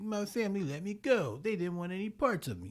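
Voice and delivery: put-on sad anime girl voice. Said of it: "that's my sad anime girl voice".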